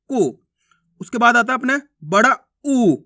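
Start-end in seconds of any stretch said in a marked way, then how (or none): 0.1-0.4 को said as a brief "ku"; short vowel. Shown as a demonstration. Teacher asking learners to copy the short u, brief. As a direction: keep को to a short u. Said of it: "मैं किस प्रकार से उच्चारण कर रहा हूँ".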